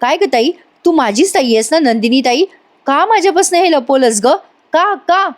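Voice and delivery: angry sister confronting her elder sister. Acted. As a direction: demand answers, the pitch climbing with anger. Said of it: "Kavya आता चिडून म्हणते".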